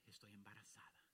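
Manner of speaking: hushed, breathless whisper of a secret; whispered confession. Retold or imitated. Single mother confiding in the pastor's wife, whispered.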